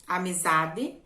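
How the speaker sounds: amizade said amizadi, ending in a clear i; final e as i. Shown as a demonstration. Teacher answering her own question: amizade ending in i. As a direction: model amizade as spoken in the region. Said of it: "Como você pronuncia a letra E final?".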